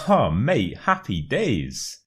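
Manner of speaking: laugh, then a slow, delighted happy days; a pleased mate with a laugh; cheerful reply. Acted. Mate cheering a friend's found fiver, laughing and delighted. Acted reply to good news.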